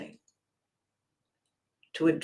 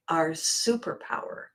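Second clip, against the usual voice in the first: whisper; 5 dB quieter than usual. Shown as a demonstration. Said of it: "naming the superpower".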